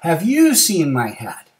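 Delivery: slow, loud, slightly acted question; bear asking. Bear asks the snake.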